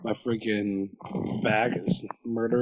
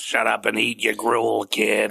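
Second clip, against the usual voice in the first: gruff lunch lady. Pretend. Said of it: "stereotypical lunch lady".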